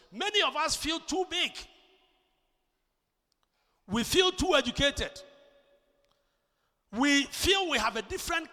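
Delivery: emphatic pulpit delivery; forceful preaching. Real, not acted. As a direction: preach it out firmly.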